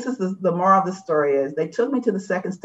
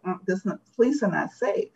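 visceral inner voice; 5 dB quieter than usual. Retold or imitated. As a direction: lightly voice the gut fear, mildly tense. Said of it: "This other more visceral part of me was like".

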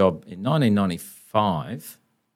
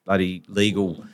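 impassioned lawyer speech; 3 semitones higher than usual. Retold or imitated.

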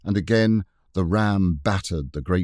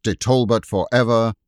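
loud, higher shouted call; distant battle shout; 4 semitones higher, 6 dB louder than usual. Acted. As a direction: call out like a besieging soldier. Shouts of the besiegers.

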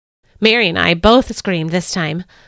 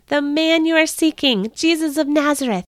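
trumpet-like angel; 7 semitones higher than usual. A narrator's reading. Angel proclaiming Jesus risen to Mary, ringing and triumphant. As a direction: announce the news like a herald's trumpet. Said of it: "spoke in a voice that sounded like a trumpet".

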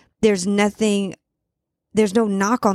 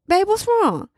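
concerned mom; 11 semitones higher than usual. Retold or imitated. Mom asking her sad son what's wrong, high and concerned. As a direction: ask gently what's wrong.

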